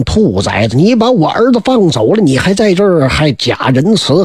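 put-on the enraged old general cursing the young officer, low and furious; furious curse. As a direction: spit the insult out low. Huang Gun glares and curses Huang Ming.

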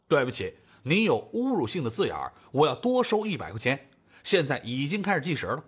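mildly officious, matter-of-fact; straight-faced. Acted. Hired man charging Xiaomai for insults, straight-faced. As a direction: state the rules in all seriousness. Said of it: "赵正义一本正经地说着".

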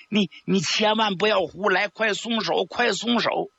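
high, hurried plea to let go; urgent pleading. A narrator's reading. Guan Xiangying breaks up the fight, pleading high and urgently. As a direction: rush in and beg him to stop. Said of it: "赶紧过来劝架".

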